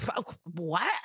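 imitated cartoon sputter of disbelief; mock astonishment, rising at the end; flabbergasted. Podcaster mimics the detective's cartoonish shock, flabbergasted. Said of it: "Stabler's flabbergasted, like, heavy breathing like a cartoon".

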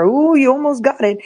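a hint of the insurance-ad fisherman teasing the fish. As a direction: dangle the bait and taunt a little. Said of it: "that commercial for insurance with the fisherman".

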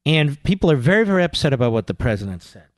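mock-solemn, voice sinking at the end; mock upset. Host mocking upset media over the president's remark, mock-solemn. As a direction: drop low on a feigned grave note.

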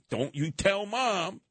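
slow, hushed sisterly warning; a light, slow, conspiratorial don't-tell; mock warning. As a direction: warn the little brother not to tell. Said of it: "she would say to me".

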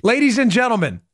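lightly put-on politician impression; hint of a politician addressing a crowd; Bernie Sanders. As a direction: address the room as an impressionist would. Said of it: "my Bernie was good".

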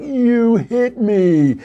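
high, slow, hammed-up whine of a little kid; whiny little kid. Little brother tattling after being hit, high and whiny. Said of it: "and the kid's like".

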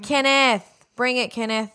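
loud, high-pitched cheer for Kenneth; calling out. Pretend. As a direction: call out to urge on the delivery driver. Cheering on the approaching delivery driver.

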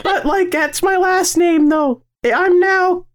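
very high falsetto chatter; put-on girl voice. Explaining the name to co-host in a girl voice. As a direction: keep up the silly high girl act. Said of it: "I'm a girl now".

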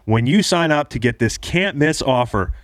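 upbeat sponsor ad read. Acted. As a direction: sell it like a radio ad. Host reads sponsor ad.

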